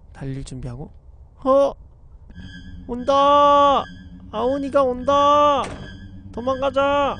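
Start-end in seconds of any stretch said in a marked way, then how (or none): 1.4-7.2 high, loud alarmed yelling; panicked shout. Real, not acted. Ghost appears, player flees. (겁에 질린 다급한 외침)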